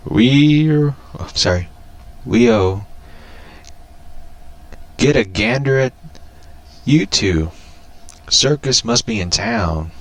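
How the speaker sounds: put-on a light southern drawl for the old coot; a hint of a southern prospector voice; southern accent. Reading the old prospector's line to his comic, in a southern accent. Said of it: "had to do my southern accent".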